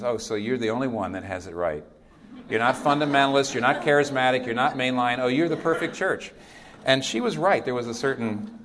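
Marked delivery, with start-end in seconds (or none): 0.0-6.3 lightly voiced, louder sarcastic retort; a hint of a scolding older woman; older Jamaican woman. Older Jamaican woman chiding the pastor, mild mock sarcasm. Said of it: "And she says".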